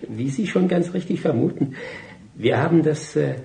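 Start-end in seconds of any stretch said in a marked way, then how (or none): 0.1-1.7 chuckling reply. Acted. Barth laughs answering.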